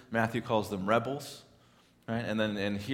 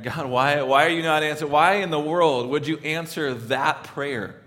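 raised, exasperated questioning of God; indignant prayer; 3 semitones higher, 5 dB louder than usual. Acted. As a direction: challenge God, stretching the final question.

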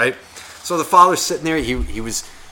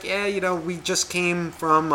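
lightly voiced child, higher-pitched; a hint of a small boy explaining himself; chatty little kid; 4 semitones higher, 4 dB quieter, slower than usual. Little kid telling a stranger about his day, lightly imitated chattiness. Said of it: "the way that he was talking".

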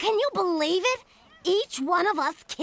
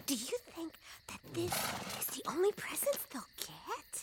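hushed whisper so nobody hears; 14 dB quieter, faster than usual. Acted. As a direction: whisper it under your breath. Quiet talk about the poor baskets.

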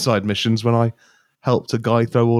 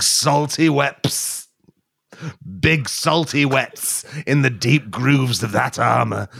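lightly voiced parched man; pleading, mock-grand beseeching; dry man voice. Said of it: "I'll be the dry man".

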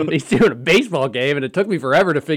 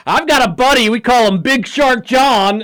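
sick radio host; 8 semitones higher than usual. Retold or imitated. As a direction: croak it like a sick broadcaster. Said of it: "Spears' sick voice be like".

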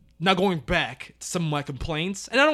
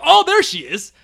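higher, louder mock find; mock butler; 10 semitones higher, 7 dB louder than usual. Mocking the butler finding her, higher mock voice. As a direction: announce it smugly as the butler. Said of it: "he still somehow was like".

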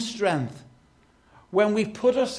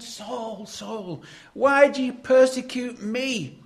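louder and higher, calling out Saul, Saul; calling voice of Jesus; 6 semitones higher, 4 dB louder, slower than usual. Acted. Jesus calls to Saul on the Damascus road, in a loud raised voice. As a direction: cry out the name, then demand why.

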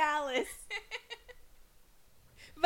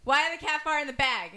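loud guess; 3 semitones higher, 4 dB louder than usual. Real, not acted. Shouting guess over headphone music.

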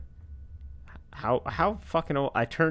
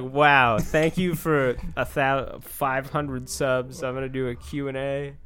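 mock YouTuber; 4 semitones higher, 6 dB louder, slower than usual. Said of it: "it's like".

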